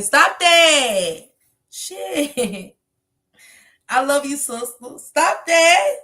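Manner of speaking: high, loud laughing "stop that"; laughing protest. Real, not acted. Reacting to a viewer's baby news, laughing and squealing.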